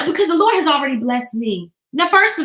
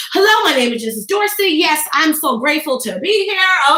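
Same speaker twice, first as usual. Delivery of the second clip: 1 confident introduction. Shown as a demonstration. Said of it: "hear me from the front".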